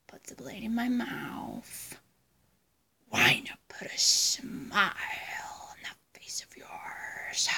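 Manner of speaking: slow, drawn-out whispery Joker menace; Joker impression. Vlogger imitating the Joker for viewers, slow sinister whisper. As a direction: whisper it slowly, stretching the words. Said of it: "that was my Joker impression".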